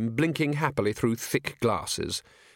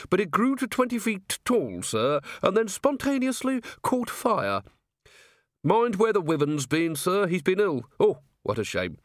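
put-on high-pitched rustic old-timer; old man keeper; 8 semitones higher than usual. Old caretaker explaining the animals to a visitor, high old-man voice.

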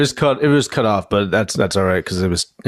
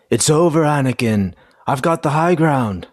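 Obi-Wan; 4 semitones higher, slower than usual. Acted. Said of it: "Obi says maybe".

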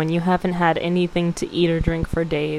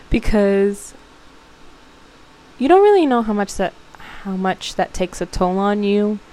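holding back tears. Real, not acted. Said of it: "and I still wanna cry".

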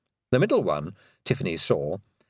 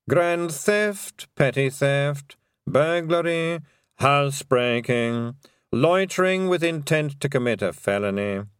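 slow, measured legal reading; dry solemn lawyer; formal lawyer; 4 semitones higher, slower than usual. Acted. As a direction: read the charges gravely. Lawyer reads charges.

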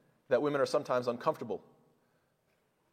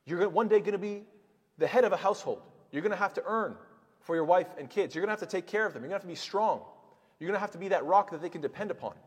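higher, raised voice of a mother instructing; a mother telling her son his duties, higher; mother teaching her son; 5 semitones higher than usual. Retold or imitated. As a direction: lecture him like a firm mother. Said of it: "every mother is teaching their sons".

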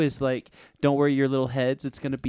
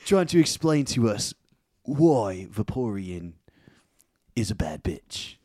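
stifled giggles. Real, not acted. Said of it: "I'm trying not to laugh".

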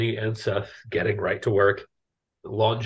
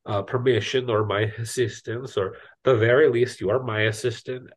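Arnie. Acted. GM as gnome refusing help with his ship, lightly accented character voice. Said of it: "he's a little bit up here".

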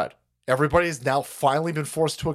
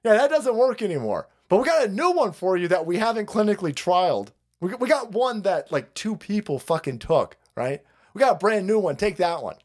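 mock straight-faced official; 5 semitones higher than usual. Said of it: "with a straight face says".

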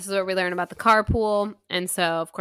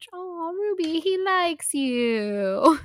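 high, slow, laughing coo of a sweet line; high, slow, fond coo through a laugh; fond reading with a laugh; 10 semitones higher, 4 dB louder, much slower than usual. Acted. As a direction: gush it fondly, breaking into a laugh. Character's fond line, read aloud.

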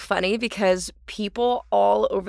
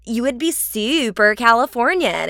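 exaggerated super-Californian accent. Shown as a demonstration. Actor demonstrating a stereotype, in a mock Californian accent. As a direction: lay on the SoCal accent. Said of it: "if you sounded like that".

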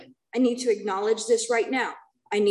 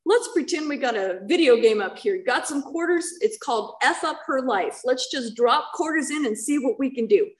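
lightly voiced mocking God, pitched up; voicing a cruel God; 4 semitones higher than usual. Speaker imagines God gaming with her life, mocking. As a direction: tease it like a bored gamer feeding quarters. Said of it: "God would have said".

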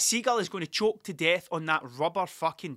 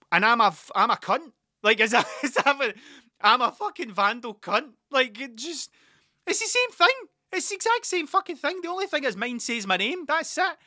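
loud, high-pitched comic outrage; indignant outburst; 7 semitones higher, 6 dB louder than usual. Retold or imitated. Sticker guy protesting the couple's double standard, indignant. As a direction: protest the unfairness, voice climbing high.

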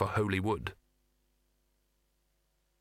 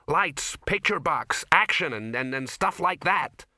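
frantic; 4 semitones higher, 4 dB louder than usual. Acted. Ginger frantic, white-faced.

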